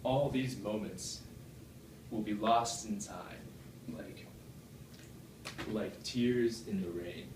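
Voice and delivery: slow, hushed quote of a dying man; mild dying words. Retold or imitated. Speaker quotes the dying antagonist, slow and hushed. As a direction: read it slowly like last words. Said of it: "on his last breath, he says".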